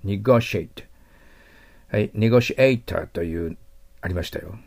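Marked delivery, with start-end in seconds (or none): 0.0-0.8 Negotiate ending on a crisp t; final t sounded. Shown as a demonstration. Teacher stresses the final t for students, crisp ending. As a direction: make the t of Negotiate clear. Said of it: "Tは死ですからね".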